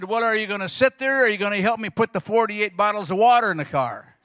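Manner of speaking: wife snapping at husband to help; impatient demand. Retold or imitated. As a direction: needle the idle husband. Wife's impatient demand at the car.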